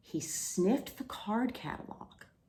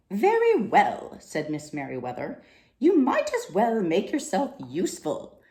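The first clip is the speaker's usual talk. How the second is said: brisk order; 7 dB louder than usual. Acted. Librarian resigned order.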